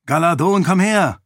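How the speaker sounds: hoch und laut durch den Raum gerufen; laut rufen. Acted. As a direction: den Freund herbeirufen. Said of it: "rief Raoden". (Raoden ruft Galadon laut und hoch zu sich)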